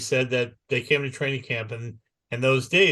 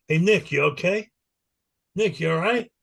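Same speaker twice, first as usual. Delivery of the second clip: higher, mock-concerned teasing; mock taunting; 5 semitones higher than usual. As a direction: needle him with fake concern. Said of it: "then he starts taunting me".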